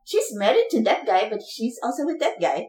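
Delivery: badly faked Indian accent; attempted Indian accent. Co-host playing a gossip telling of an affair, poor Indian accent. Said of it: "Was that a good accent?".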